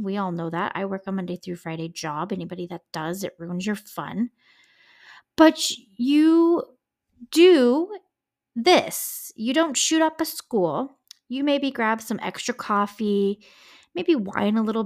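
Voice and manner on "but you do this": each word set apart, higher and louder; emphatic stress. Real, not acted. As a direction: hammer out you, do, this. Emphatic lesson to the killer.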